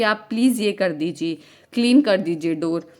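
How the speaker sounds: polite request easing down in pitch; courteous request with a falling tune. Shown as a demonstration. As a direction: let the pitch fall gently through the request. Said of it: "एक pitch maintain करेंगे falling tone".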